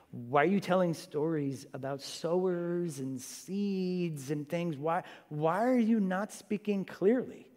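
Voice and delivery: mock puzzlement, drawn-out words; puzzled disciple. Disciples asking Jesus about his stories, puzzled. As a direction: question the teacher slowly, in mild bafflement. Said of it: "it's probably the disciples in the boat".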